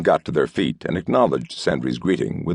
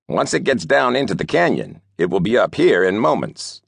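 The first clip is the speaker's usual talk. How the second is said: urgent warning; 6 semitones higher than usual. A narrator's reading. Regipisk warns.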